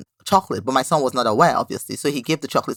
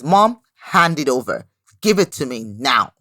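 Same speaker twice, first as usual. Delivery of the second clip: mock firm demand; 2 semitones lower than usual. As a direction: imitate a boy standing his ground. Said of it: "squares his shoulder".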